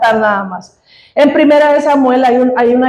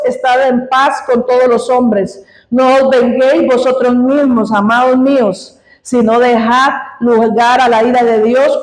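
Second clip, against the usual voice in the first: scripture reading. Acted. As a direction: read the verses with solemn weight. Reads Romans 12 aloud to congregation.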